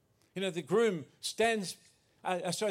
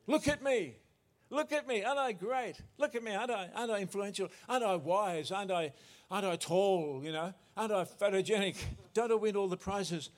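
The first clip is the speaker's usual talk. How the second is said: mock boast. Mocking a boastful self-image.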